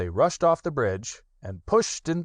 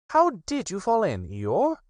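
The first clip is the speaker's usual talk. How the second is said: high, pleased rabbit voice; high self-satisfied Rabbit; 12 semitones higher than usual. Acted. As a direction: Rabbit taking credit, high. Rabbit asks.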